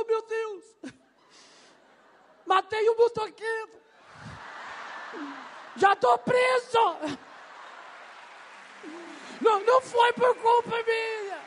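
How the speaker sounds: a trapped bird crying out in panic; panicked bird. Acted. The caged bird wailing to itself, high and desperate.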